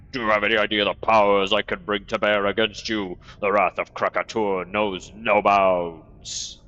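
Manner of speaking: ancient rasping undead king. Acted. Boastful monster NPC threatens.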